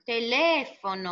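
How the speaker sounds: "teléfono" slowly, leaning on the "lé"; antepenultimate stress. Shown as a demonstration. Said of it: "esdrújula sempre é acentuado". ("teléfono" devagar, com o "lé" bem marcado)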